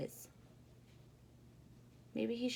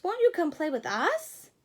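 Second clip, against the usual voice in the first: 1 pleading rabbits; 6 semitones higher, 7 dB louder than usual. Acted. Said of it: "said the rabbits".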